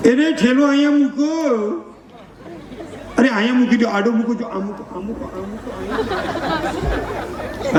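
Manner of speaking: high, bossy mock orders while loading the car; a fussing relative barking where to put things; fussy packing orders. A relative packing the car, ordering everyone about fussily.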